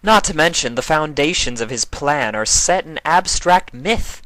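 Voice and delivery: a lofty moon goddess pointing out a flaw; Nightmare Moon's voice. A narrator's reading. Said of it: "Nightmare Moon added".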